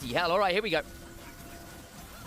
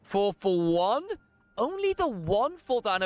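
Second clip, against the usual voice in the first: excited call; 5 semitones higher, slower than usual. Real, not acted. Hyped call after a fight.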